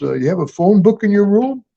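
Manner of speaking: a hint of a rude clerk brushing off a guest; gruff hotel clerk. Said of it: "He goes".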